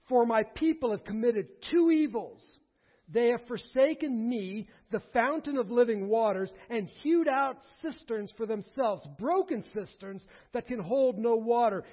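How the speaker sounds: emphatic scripture declaiming; rebuke. Acted. God charging his people with two evils, forceful rebuke. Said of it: "This is a rebuke. God is speaking".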